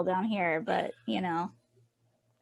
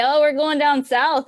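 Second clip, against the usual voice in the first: quoting them in a raised voice; mimicking locals; 6 semitones higher, 8 dB louder than usual. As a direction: brightly announce it, higher and louder. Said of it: "they always say".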